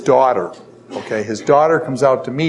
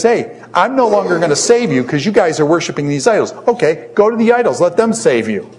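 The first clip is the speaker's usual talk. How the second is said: sarcastic; 5 semitones higher than usual. Retold or imitated. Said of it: "That's sarcastic".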